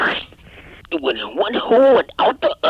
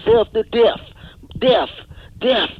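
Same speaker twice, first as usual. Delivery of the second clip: loud yelling; 5 dB louder, slower than usual. Acted. Overeating frenzy, yelling.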